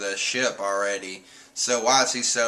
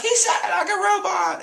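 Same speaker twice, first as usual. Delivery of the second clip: very high voice breaking into laughter; amazed friends laughing; laughing disbelief. Retold or imitated. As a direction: laugh it out like a delighted cartoon. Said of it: "they're like".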